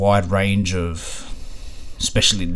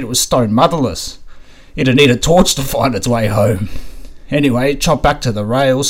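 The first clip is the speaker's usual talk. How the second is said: imitating racetrack old-timer; 3 semitones higher, 4 dB louder than usual. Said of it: "They'd say something like".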